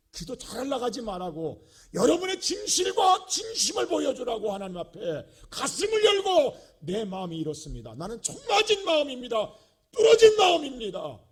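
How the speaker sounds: loud, high, shouted sermon; full-force preaching. Real, not acted. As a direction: thunder it out to the congregation.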